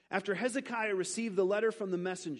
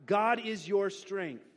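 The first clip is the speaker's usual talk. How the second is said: slow; 4 dB louder, much slower than usual. Shown as a demonstration.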